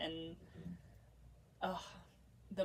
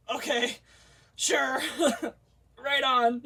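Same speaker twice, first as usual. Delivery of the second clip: mock compliant; 7 semitones higher, 9 dB louder than usual. Mock agreeing to pass out.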